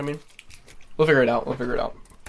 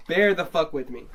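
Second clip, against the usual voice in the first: loud; 4 semitones higher, 5 dB louder than usual. Real, not acted. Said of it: "I sound like a fucking lunatic".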